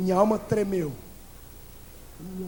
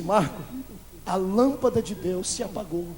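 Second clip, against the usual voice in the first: tearful pastor; 4 semitones lower, 5 dB quieter than usual. Retold or imitated. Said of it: "E comecei a chorar também".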